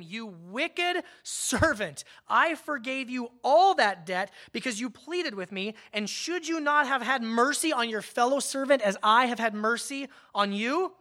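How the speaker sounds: a hint of a wrathful king; king scolds the unforgiving servant, stern anger; angry master. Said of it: "And in anger, in wrath".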